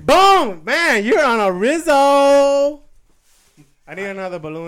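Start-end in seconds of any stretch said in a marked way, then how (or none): 0.0-2.8 loud, slow, high Terminator impression; helium voice. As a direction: boom it out as the Terminator.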